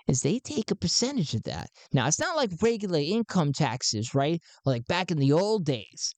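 an excited recruiter greeting a new believer; high-pitched Garn. Acted. Garn welcomes Sven into the cause, pitched high.

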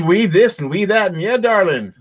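high, lightly mocking Northern Irish accent; a hint of a Northern Irish cop; imitating his accent. Mimicking a Line of Duty character's Northern Irish accent. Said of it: "this guy right here, he's got".

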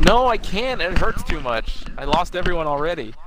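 high, slow, pleading retelling; mock anguished plea. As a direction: act out a desperate refusal, voice climbing. Acted plea from film scene.

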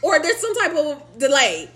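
high, laughing disbelief. Real, not acted. Incredulous laughing aside.

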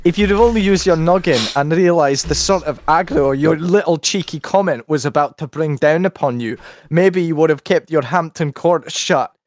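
hammed-up London geezer threatening a foreigner; mock Brexit lad rant. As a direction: read it like a lairy football hooligan.

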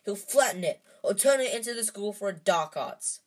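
defiant outburst to his friends; shouting. A narrator's reading. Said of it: "Harry shouted".

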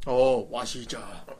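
put-on very old man. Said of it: "노인 말투로 한다".

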